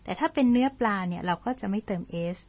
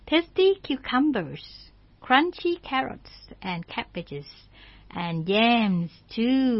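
slow story reading; much slower than usual. Shown as a demonstration. Character longs for food, slow.

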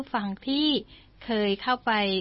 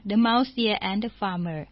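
slow read-aloud; much slower than usual. Shown as a demonstration. Reads story title slowly.

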